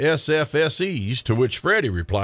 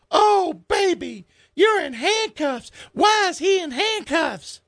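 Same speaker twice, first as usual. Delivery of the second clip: much higher, shrill outraged mama; shrieking mother; slower than usual. Acted. Darla screeching at the cop over her son's arrest, high and outraged.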